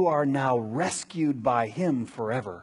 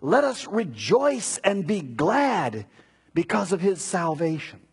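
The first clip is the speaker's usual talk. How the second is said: emphatic pulpit proclamation, often raised in pitch; scripture reading; 5 semitones higher than usual. Acted. Preacher reading Isaiah's promise of salvation, emphatic scripture reading. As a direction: declaim it in measured, weighty phrases. Reads out Bible prophecy.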